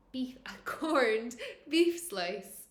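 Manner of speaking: giggling through a whispered correction; real amused whisper after a slip; laughing whisper. Real, not acted. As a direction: laugh off the slip, breathy and hushed. Laughs at own misreading.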